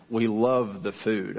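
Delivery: "love" drawn out slowly for emphasis; stress on love. Real, not acted. Pastor confiding the bottom line to church, stress on "love". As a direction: lean long and slow on "love". Contrasts loving food with liking others.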